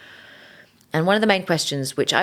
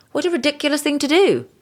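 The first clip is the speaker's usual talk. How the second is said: angry with God; 11 semitones higher, 4 dB louder, faster than usual. Retold or imitated. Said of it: "so angry with God".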